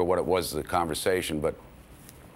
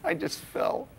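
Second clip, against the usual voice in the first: real laughter breaking into a much higher voice; laughing; 3 dB quieter, slower than usual. Real, not acted. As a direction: laugh helplessly while telling it. Collapsing with laughter at the joke.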